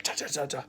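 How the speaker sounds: quick, quiet imitation of fierce paddling; softly tapped-out "ta" sounds for frantic strokes; fierce paddling noise. Bloke paddling right over to the surfer, imitated fierce paddling noise. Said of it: "like, really fiercely".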